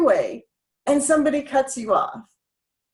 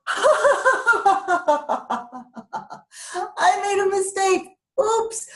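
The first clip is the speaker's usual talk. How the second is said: light self-mocking; 6 semitones higher than usual. Shown as a demonstration. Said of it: "laugh at yourself and just go".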